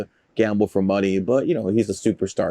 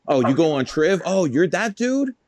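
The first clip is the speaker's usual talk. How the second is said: mock recognition; 8 semitones higher than usual. Radio people recognizing the guest, high mock surprise. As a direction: imitate someone starstruck.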